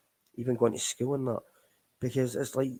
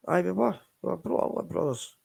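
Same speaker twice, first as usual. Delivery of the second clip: emphatic; 7 semitones higher than usual. Real, not acted. Emotional memory of dead friend.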